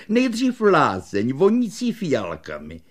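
high start, lightly salesman-like; shopkeeper answering himself. Acted. Shopkeeper deciding on a violet bath, lightly voiced. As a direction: announce it like a treat. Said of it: "a sám si odpověděl".

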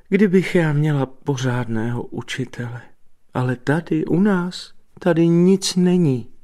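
high-pitched, aggrieved lament; high, wound-up protest; exclaimed complaint. A narrator's reading. Astonished Jana complains about teachers.

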